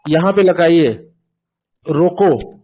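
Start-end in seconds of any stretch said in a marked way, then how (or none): 1.9-2.5 "रोको" set apart as its own command, then a pause; falling "रोको" before a comma break; comma after रोको. Shown as a demonstration. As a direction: say "रोको" alone, falling, and stop. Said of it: "comma यहाँ पे लगा दिया".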